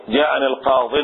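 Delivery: "القاض" with tanween after the article; wrong tanween form. Shown as a demonstration. Teacher showing students what is not allowed, wrong tanween form. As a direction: show the forbidden tanween on "القاض". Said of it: "ما يصير".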